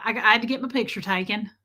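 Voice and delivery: quick Southern twang, mocking your own slip; incredulous Southern-accented echo. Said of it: "I can't believe I just did that".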